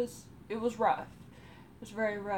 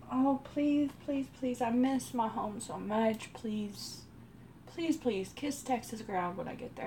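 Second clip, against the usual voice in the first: imitated pleading; 4 semitones higher than usual. Homesick driver begging, quoted.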